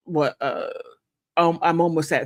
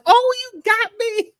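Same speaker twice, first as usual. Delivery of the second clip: friend's voice; 5 dB louder than usual. Retold or imitated. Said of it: "She's like".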